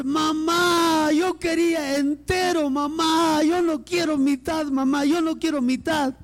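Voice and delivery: mock wail of a whining child; tearful child complaint. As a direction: drag out the protest like a little boy crying to mamá. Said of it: "empieza a llorar y dice".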